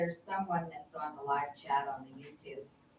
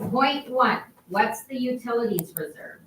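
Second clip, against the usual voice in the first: much louder, higher read-out; speaking up; 6 semitones higher, 9 dB louder than usual. Real, not acted. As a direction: project the question so everyone can hear. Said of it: "Can you speak up?".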